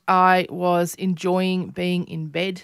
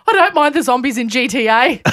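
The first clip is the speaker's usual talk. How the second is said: put-on pitched-up kid quote with a laugh in it; child's voice; 5 semitones higher, 5 dB louder than usual. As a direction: imitate a daughter, higher and louder. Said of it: "And she goes".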